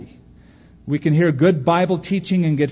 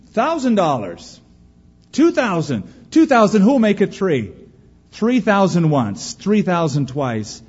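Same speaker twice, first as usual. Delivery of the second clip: excited bidding; 5 semitones higher, 3 dB louder than usual. Acted. Auctioneer raising bids excitedly.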